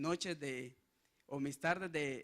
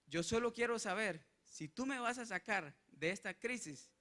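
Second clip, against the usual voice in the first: higher, pleading prayer to God; retold tearful plea; 5 semitones higher than usual. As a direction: cry out as if close to tears. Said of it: "yo lloraba". (súplica llorosa y más aguda)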